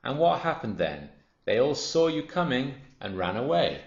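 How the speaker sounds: high, loud storybook taunt; animated, mocking crocodile retort; scornful smaller crocodile. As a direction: taunt the big croc with the memory.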